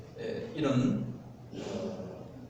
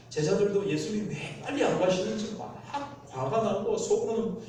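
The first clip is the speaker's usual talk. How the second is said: ordinary talk, nothing marked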